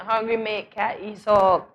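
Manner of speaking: a slow, light Bajan lilt on the proverb; Bajan accent. Shown as a demonstration. Translating granny's proverb, in a slow, lightly done Bajan accent. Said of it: "we have to say it in a Bajan accent".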